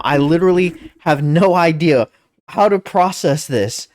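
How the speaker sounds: ordinary talk, nothing marked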